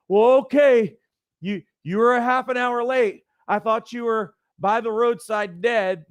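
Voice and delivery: worried mom. Retold or imitated. Mom tells late teenage son she feared him dead, high and fretful. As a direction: play the mom who always fears the worst.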